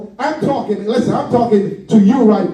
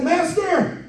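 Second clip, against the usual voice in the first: happy servant; 5 semitones higher, slower than usual. Retold or imitated. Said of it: "See, he's happy".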